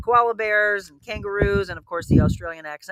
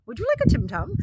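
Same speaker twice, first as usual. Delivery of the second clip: higher-pitched imitation Australian accent; attempted Australian accent; 11 semitones higher than usual. Host retelling the flight attendant's offer, attempted Australian accent. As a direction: have a rough go at an Australian accent. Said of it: "in her Australian accent".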